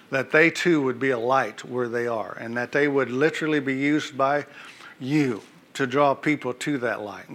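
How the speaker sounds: earnest church prayer, rising and falling; fervent prayer. Acted. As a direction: pray it out over the congregation. Pastor prays over teachers.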